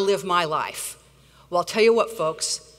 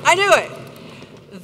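slow, drawn-out repeat; 5 semitones higher, 3 dB louder, much slower than usual. Real, not acted.

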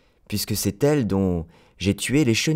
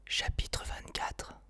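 whispered, slow heading; slow whispered chapter title; 14 dB quieter, slower than usual. A narrator's reading. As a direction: whisper it slowly, a secret.

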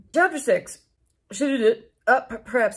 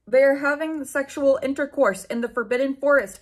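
mild mock yell; 4 semitones higher, 4 dB louder than usual. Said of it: "he yelled in a furious voice".

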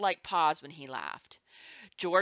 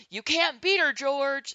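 high, loud heckle from the crowd; raised-voice teasing call to a dancer; shouted; 9 semitones higher, 5 dB louder than usual. A narrator's reading. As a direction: shout it out over the dancing. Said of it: "somebody shouted".

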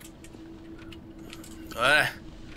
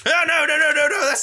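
laughing panic; 13 semitones higher, 5 dB louder than usual. Real, not acted. Monster appears, laughing panic.

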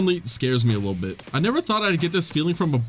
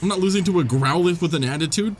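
defiant. Real, not acted. Defiant, then admits losing.

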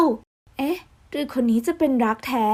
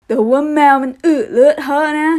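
annoyed protest; 3 semitones higher, 5 dB louder than usual. Acted. Hayato still objecting.

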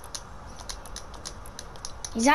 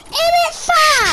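shouted London roadman slang; rough london slang; 6 dB louder, much slower than usual. Pretend.

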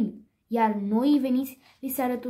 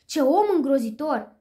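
a touch of indignation, slightly raised; mildly outraged exclamation; indignant; 3 dB louder than usual. Acted. Duchess scolding the cursing driver, mildly indignant. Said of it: "indignată".

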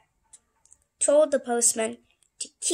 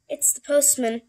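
lightly voiced postman, a bit louder; postman announcing himself; 3 semitones higher, 5 dB louder than usual. Postman answers the Scaredy Cats' question, lightly voiced announcement. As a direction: announce yourself through the door. Visitor answers through the door.

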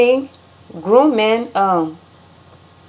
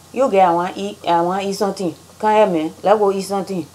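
put-on Liberian accent; much faster than usual. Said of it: "men will say to the girl".

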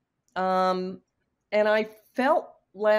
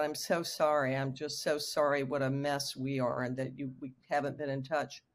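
holding back tears; 4 semitones lower, 4 dB quieter than usual. Retold or imitated. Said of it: "I was trying not to cry".

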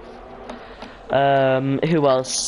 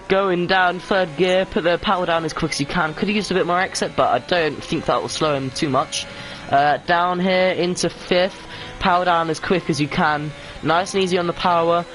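raised-pitch onboard lap commentary; live play-by-play; 5 semitones higher than usual. Real, not acted. Commentator follows a driver gear by gear, live play-by-play. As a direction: talk the driver through each corner.

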